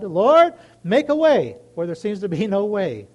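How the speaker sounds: a loud cry of Lord, then the plea; calling out to God. Retold or imitated. Asking the listeners, crying out to the Lord. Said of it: "Anybody had to tell God".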